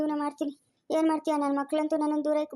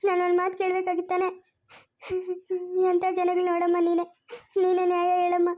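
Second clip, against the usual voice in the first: pleading with sobs between phrases; tearful complaint. Acted. Sidelined father asks the woman for justice, tearful. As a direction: pour out the hurt, breaking off to sob. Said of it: "ಅಳ್ಬೇಡ ಸುಮ್ನಿರು".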